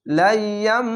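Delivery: লাইয়াম ending on a long hummed M; iqlab ghunna. Shown as a demonstration. Teacher showing learners iqlab, with a held nasal hum. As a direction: hold the final M of লাইয়াম through the nose. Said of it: "এই মিমকে পড়বেন".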